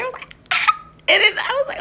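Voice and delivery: fast, high laughing lead-in; quick laughing rush. Real, not acted. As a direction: giggle through it. Laughing while retelling.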